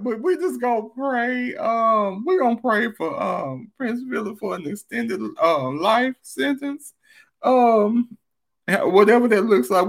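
laughing. Real, not acted. Still high after laughing.

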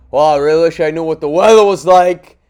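loud complaining grumble; mock loud dad. Dad whining about weather and packages, loud mock grumble. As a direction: grumble loudly to nobody. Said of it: "He's just talking all loud".

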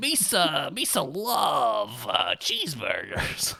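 slow, drawn-out mock Gungan; hammed-up Gungan who fizzles out. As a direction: drag out misa like a clumsy Gungan. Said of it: "expecting a pitch perfect Gungan".

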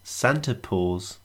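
slow deadpan punchline; telling a dad joke. Acted. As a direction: drag the pun out slowly. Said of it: "this is gonna be god-awful".

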